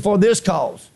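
deliberate scripture reading; measured quoting of the verse; slow reading. Real, not acted. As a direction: read it out carefully. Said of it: "I'm gonna read it slow".

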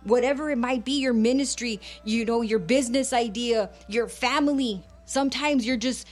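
earnest bilingual preaching, rhythmic and insistent; fervent radio sermon delivery. Acted. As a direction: preach it to the listeners with conviction.

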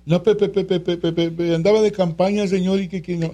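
mock excuse. Parent makes excuses to God at judgment, mock whiny. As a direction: play a flustered parent fumbling an excuse.

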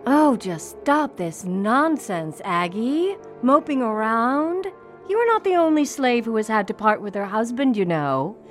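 dismissive, impatient mistress; icy, scornful reprimand; cold snap. Acted. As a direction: scold coldly, drawing out the opening words. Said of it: "who coldly snapped at Lizzie's mother".

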